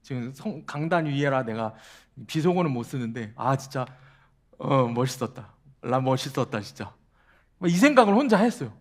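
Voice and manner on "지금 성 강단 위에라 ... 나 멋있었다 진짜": smug inner voice. Retold or imitated. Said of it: "그 영화에서처럼".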